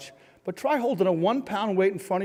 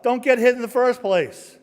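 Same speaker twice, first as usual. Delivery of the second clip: louder and higher, exasperated insistence; emphatic correction; 7 semitones higher, 7 dB louder than usual. Real, not acted. Speaker corrects the Rocky movie lesson, emphatic and loud. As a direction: drive the rule home loudly. Exclaims the rule to audience.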